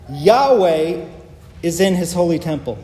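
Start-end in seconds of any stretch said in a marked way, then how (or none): 0.1-1.1 "Yahweh" called out louder, like a mild yell; emphatic Yahweh. Shown as a demonstration. Preacher showing how Hebrew puts "Yahweh" first. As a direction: say "Yahweh" as if proclaiming it. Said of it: "It's like he's yelling".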